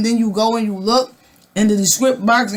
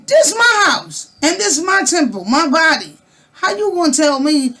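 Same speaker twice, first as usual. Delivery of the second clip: indignant outburst; 5 semitones higher than usual. Real, not acted. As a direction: claim it with outrage. Defending own body against ban.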